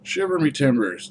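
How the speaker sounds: bold pirate exclamation. Pretend. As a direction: cry it out like a pirate captain. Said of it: "I'm gonna use the pirate voice".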